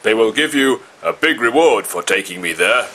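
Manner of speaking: cheeky boastful monkey. A narrator's reading. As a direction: puff up like a sly rich monkey.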